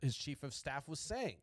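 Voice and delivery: stumbling, repeating words; stuttering. Real, not acted. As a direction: trip over the words and restart. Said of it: "I don't know why I'm stuttering".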